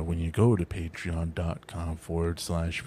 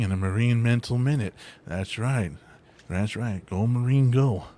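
Reagan impression. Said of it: "I did the Gorbachev wall Reagan".

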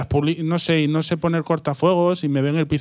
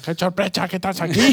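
clown voice; 2 semitones higher, 4 dB quieter than usual. Pretend. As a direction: play a goofy clown. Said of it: "voz de payaso".

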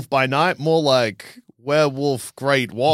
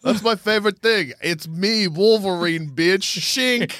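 mock Wolverine voice; 6 semitones higher, slower than usual.

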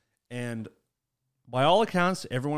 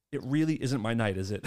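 resigned; 3 semitones lower than usual. Retold or imitated. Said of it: "he did this. He went".

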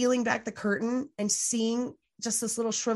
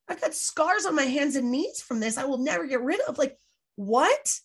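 higher, rising indignant rant, reliving it; retold angry outburst; 5 semitones higher than usual. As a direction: replay the anger, voice climbing in disbelief. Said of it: "And it made me really angry".

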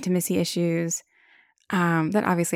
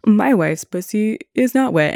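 higher, louder mock pundit voice; mocking Ben Shapiro; 4 semitones higher, 5 dB louder than usual. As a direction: lampoon a smug pundit, nasal-free but pushed up. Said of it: "when Ben Shapiro was like".

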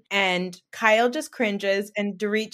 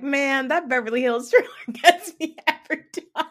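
hammed-up excitement; 6 semitones higher, 5 dB louder than usual. Mocks own excitement at the trailer.

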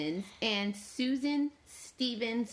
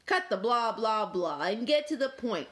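grumpy Dog. Acted. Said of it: "said Dog".

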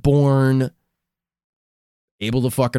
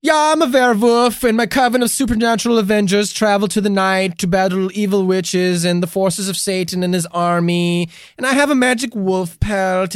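high, rambling werewolf witness; earnest self-styled monster hunter on the stand; Theus; 6 semitones higher than usual. Acted. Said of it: "Theus is like".

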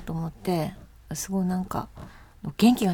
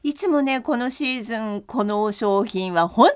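TV shopping host; 2 semitones higher than usual. Pretend. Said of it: "ちょっとあなたがやってみてください。".

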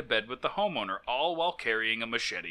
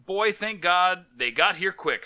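relieved homeowner; 4 semitones higher, 5 dB louder, slower than usual. Retold or imitated. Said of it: "said the homeowner".

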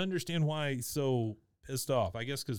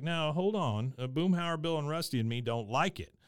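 lightly imitated objection, starting higher; Hank; 4 semitones higher than usual. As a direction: raise a hand-on-the-brakes protest as a character. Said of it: "Hank is like".

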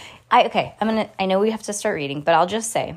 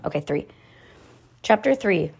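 usual speaking voice

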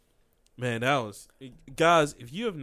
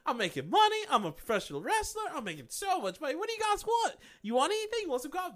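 much higher, cheery Peter Parker voice; happy Peter voice; 13 semitones higher than usual. Retold or imitated. Retelling Peter in his happy fake world, chipper and high. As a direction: play a chipper Peter offering coffee, pitched high. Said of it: "And he's like".

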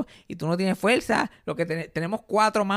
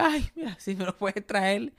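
meek plea; 3 semitones higher, slower than usual. Retold or imitated. Asking the neighbor for the scraper, meek and slow. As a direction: beg for it sweetly and slowly. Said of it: "Y yo".

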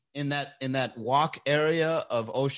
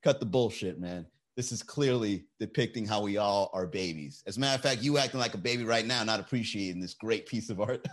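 low, unhurried mock-philosopher voice; know-it-all chin rubber; 4 semitones lower, 3 dB quieter than usual. Chin-rubbing art snob shutting down a rival, low and smug. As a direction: drop your voice and lecture like the smartest man in the gallery. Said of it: "you'd be like".

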